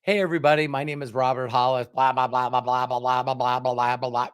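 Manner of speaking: lightly hammed-up cheery opener, trailing into blah blah; a hint of an eager vlogger opening; mock YouTube intro. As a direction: parody your old chirpy video greeting. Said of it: "and I'd start out".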